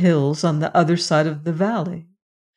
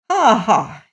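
mock laugh; 3 semitones higher, 3 dB louder than usual. A narrator's reading. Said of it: "he cried".

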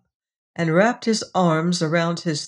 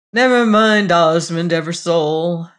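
grinning; 6 dB louder than usual. Acted. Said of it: "one of Corisand's alleged uncles grinned".

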